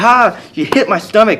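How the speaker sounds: lively mock amusement; retold mocking laugh. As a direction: scoff with an acted "ha". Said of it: "she laughed at me".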